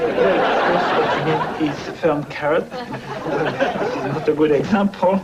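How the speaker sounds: put-on French accent. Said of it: "I love that French accent".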